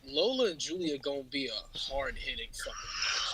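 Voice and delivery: hushed excited whisper. Real, not acted. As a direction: lean in and whisper it. Hyped aside about future match.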